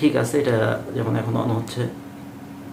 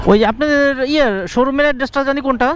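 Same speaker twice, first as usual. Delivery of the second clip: calling out loudly; 12 semitones higher, 5 dB louder than usual. Real, not acted. Calling shop owner on phone.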